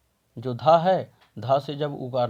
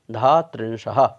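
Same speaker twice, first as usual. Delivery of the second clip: louder final answer; 3 semitones lower, 8 dB louder than usual. Shown as a demonstration. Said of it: "teacher announces final joined word".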